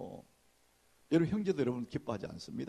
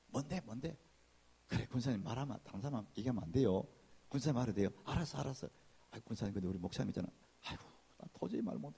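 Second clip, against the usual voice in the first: hushed gossip dialogue; 4 semitones lower, 6 dB quieter, faster than usual. Retold or imitated. Acted gossip exchange, hushed.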